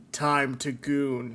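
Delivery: very slow, drawn-out declaration; playfully drawn-out proclamation; mock solemn announcement. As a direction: stretch each word out like an internal alarm. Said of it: "He goes".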